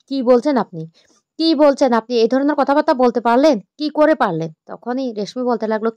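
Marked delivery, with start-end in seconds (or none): 0.1-4.5 angry. Acted. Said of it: "রেগে গিয়ে বলতে লাগলো".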